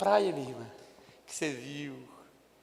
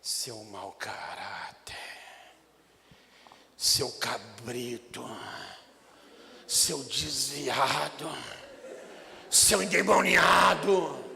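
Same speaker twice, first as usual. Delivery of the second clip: hammed-up rebuke, word by word; mock scolding; 7 semitones lower, much slower than usual. Preacher playing a harsh discipler, slowly scolding Peter. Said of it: "me coloquei no lugar de Jesus, como discipulador".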